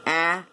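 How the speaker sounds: AFTER split into four separate sounds, a, f, t, er. Shown as a demonstration. Teacher counting four sounds, AFTER sound by sound. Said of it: "Four sounds and two syllables".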